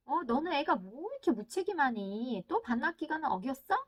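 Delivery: lightly acted telling-off of a child; mock scolding. Parent chides child over overdue library book, mock scolding. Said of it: "막 쏘아시- 붙이고 싶은".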